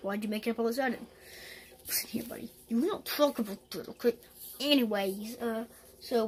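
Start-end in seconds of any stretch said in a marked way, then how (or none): 1.9-4.2 secretive threatening whisper. Acted. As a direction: hush him with a warning. Toad hushes the kid threateningly.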